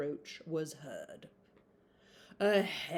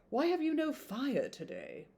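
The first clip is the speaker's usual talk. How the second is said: pitched up in surprise at the cold room; surprised question; 8 semitones higher than usual. Acted. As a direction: ask it startled, eyebrows raised. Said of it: "said with much surprise".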